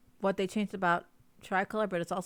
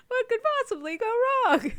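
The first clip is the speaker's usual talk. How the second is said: much higher, mock-innocent ironic question; sarcastic; 5 dB louder than usual. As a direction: ask it knowing it'll all go wrong. Ironic joke about carrying team.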